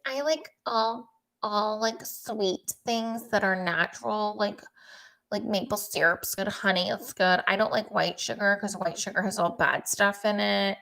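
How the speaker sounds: imitating Kristin. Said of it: "she was saying".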